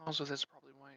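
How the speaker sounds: low quality mic; muffled, tinny mic sound; low sample rate. Real, not acted. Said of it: "your mic is really low quality for some reason".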